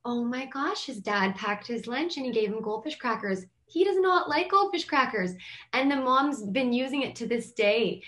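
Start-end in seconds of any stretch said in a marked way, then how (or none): 0.1-5.3 retold surprise. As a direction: act out a mom's astonished disbelief. Mom's shocked reaction retold.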